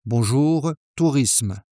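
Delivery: calm, unhurried French answer; greet, then answer with composure. Shown as a demonstration. Traveler answering immigration officer, calm tone. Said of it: "with a small nod and a calm tone".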